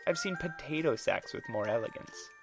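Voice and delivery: venomous taunt. Acted. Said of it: "Eleanor's voice dripped with venom".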